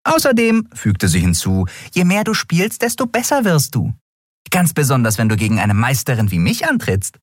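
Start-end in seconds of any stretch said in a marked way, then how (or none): 0.0-0.7 high tiny voice, smiling and encouraging; smiling tease. Acted. Nelen's voice. 1.9-7.2 high tiny voice, smiling and encouraging; smiling tease. Acted. Nelen's voice.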